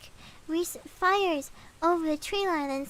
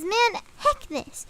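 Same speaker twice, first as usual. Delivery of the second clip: fed-up outburst; 6 semitones higher, 3 dB louder, much slower than usual. Retold or imitated. Reese loses patience, goes outside.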